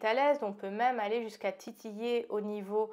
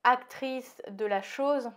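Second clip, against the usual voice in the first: slight lisp from new aligners. Real, not acted. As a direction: lisp on the s sounds. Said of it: "Désolée si je zozote un peu".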